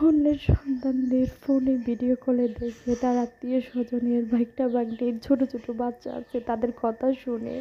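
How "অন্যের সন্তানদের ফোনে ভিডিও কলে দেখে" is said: tearful voice breaking into a sob; crying. Real, not acted. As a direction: speak through real tears. Tearful complaint about childlessness.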